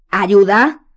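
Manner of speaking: barely restrained fury; holding back anger; controlled anger. A narrator's reading. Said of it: "repitió controlando la voz".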